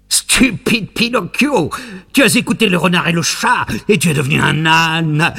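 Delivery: lightly voiced mean little fellow taunting; a hint of a nasty little man gloating, high then easing down; mocking little man. Little man scolds donkey Pinocchio.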